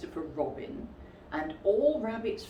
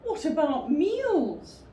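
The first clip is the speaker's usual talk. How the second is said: gloomy; 10 semitones higher, 4 dB louder, slower than usual. Acted. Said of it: "said Pooh gloomily".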